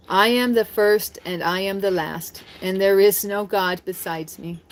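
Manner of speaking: slow, measured Bible reading; slow devotional reading; scripture reading. Acted. Reads scripture aloud.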